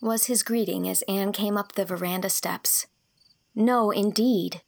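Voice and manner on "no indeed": louder, slow, offended denial; huffy girl protesting; indignant. Acted. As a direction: bristle at the suggestion. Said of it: "said Anne indignantly".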